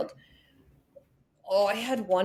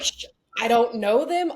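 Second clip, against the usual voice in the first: mock denial with a laugh; 4 semitones higher, 5 dB louder than usual. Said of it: "I'm like".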